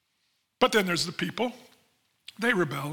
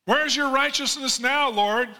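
an anguished plea, voice raised high; crying out; 8 semitones higher, slower than usual. Acted. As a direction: cry out to God in desperate, drawn-out pleading. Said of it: "the people were crying out".

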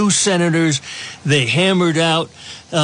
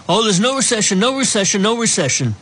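higher, dismissive mimicry; mocking voice; 5 semitones higher, faster than usual. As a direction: sneer it like a spin doctor. Mocking Biden denying recession.

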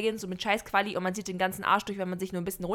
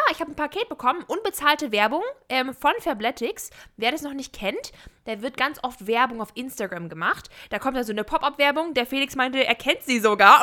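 ad voice; 4 dB louder than usual. Acted. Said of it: "du hast doch diese Werbestimme schon wieder ausgesetzt".

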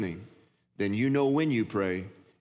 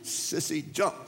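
mock hollering; 3 semitones higher than usual. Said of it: "people were hollering".

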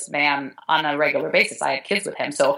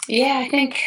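tearful whisper; 8 semitones higher than usual. Real, not acted. Answering after tears.

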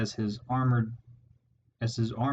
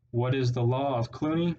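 rallying call. A narrator's reading. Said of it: "As Clooney exhorted them".

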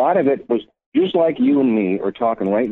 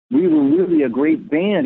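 thrilled, much higher voice, imitating his friend; excited Keith. Keith phoning the speaker, thrilled about hearing the old CD: excited high voice. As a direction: replay his giddy phone call, pitched way up. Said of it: "he called me so excited".

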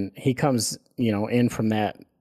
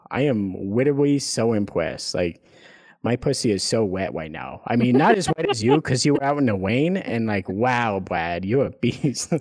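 mocking voice. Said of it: "I'm in my car saying shit like this".

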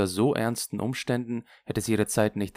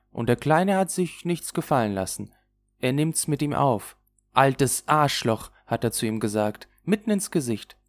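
lively, raised voice of a gossiping friend; chatty Lulu; 6 semitones higher, 5 dB louder than usual. Acted. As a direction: recount the row with relish, a little higher. (lebhaft erzählende Lulu)

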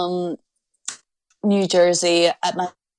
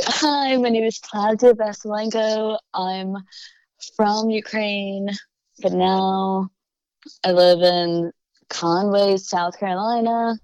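careful, bright on-air intro read; formal self-introduction. Shown as a demonstration. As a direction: present yourself like a host opening a show. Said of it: "like, a short intro".

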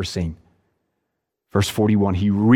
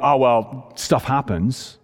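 mock indifference; slower than usual. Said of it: "He's not just indifferent, going".

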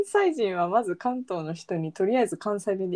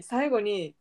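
ordinary delivery

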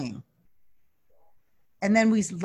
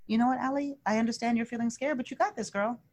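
soft, gently reassuring pep talk; friendly self-talk; 3 semitones higher, 4 dB quieter than usual. Acted. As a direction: talk yourself down like a kind friend. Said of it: "talk it down like a friend".

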